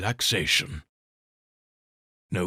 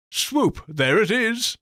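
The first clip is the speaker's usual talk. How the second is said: high, loud triumphant cheer; excited call; 9 semitones higher, 4 dB louder, slower than usual. Acted. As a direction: shout it out in triumph. Demo swoop cheer.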